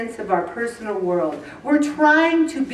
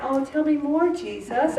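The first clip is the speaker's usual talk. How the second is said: soft, swooning, fading quietly; adoring and unhurried; dreamy Mary; 4 semitones higher, 4 dB quieter than usual. Retold or imitated. Mary at Jesus' feet, soft swooning voice. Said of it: "Mary's in there".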